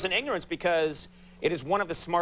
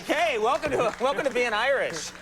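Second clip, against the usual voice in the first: mock welcome; 5 semitones higher than usual. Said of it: "You're like".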